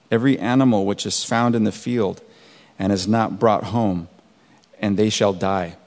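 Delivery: measured Bible reading, slowing on heavy hail; scripture reading. Acted. Pastor reading Exodus aloud to the congregation, measured and deliberate. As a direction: read the verses like a pastor to his flock.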